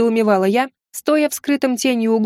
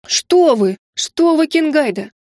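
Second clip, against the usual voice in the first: fervent protest; 2 semitones higher than usual. Acted. Maid hurrying to deny her scheme, fervently. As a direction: protest hotly, all innocence. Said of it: "пылко возразила Ирина".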